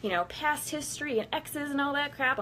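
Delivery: mocking prim voice. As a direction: parody the goody-goody advice. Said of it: "people are like".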